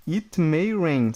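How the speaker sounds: slow and clear: it may rain; slow model reading. Shown as a demonstration. Teacher modelling a sentence slowly. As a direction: stretch each word for the class. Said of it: "aqui, ó".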